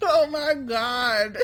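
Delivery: drawn-out, wheezing laugh through the words; can barely get it out for laughing; helpless laughter. Real, not acted. Reader cracking up at her own old story, laughing.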